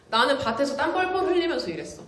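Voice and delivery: worked up. Real, not acted. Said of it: "개빡친 겁니다".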